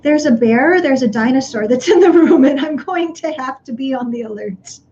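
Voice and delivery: mild alarm. Retold or imitated. Lungs warning the brain of a bear, mild mock alarm. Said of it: "the signal ... is sending to your brain is".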